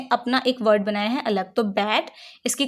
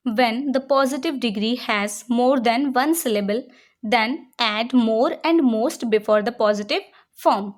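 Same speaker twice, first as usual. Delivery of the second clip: slow, deliberate rule reading; slow dictation read; much slower than usual. Shown as a demonstration. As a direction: read the rule out slowly for students to write. Reads rule slowly as dictation. (धीरे-धीरे नियम पढ़ना)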